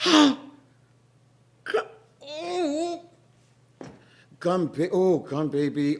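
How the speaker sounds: high, broken gasping; panicked gasps. Acted. Moesha stuck fast, gasping in panic. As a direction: stammer in alarm.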